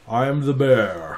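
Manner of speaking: slow, lightly voiced bear; a hint of a big bear, slowly. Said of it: "Do you like it when I do the bear voice?".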